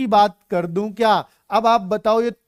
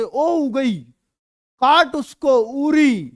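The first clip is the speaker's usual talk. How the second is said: higher, excited calls while flying kites; excited kite flyer; 4 semitones higher, 4 dB louder, slower than usual. Retold or imitated. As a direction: cheer the kite on, half-acted. (पतंग उड़ाते बच्चे की उत्साहित पुकार)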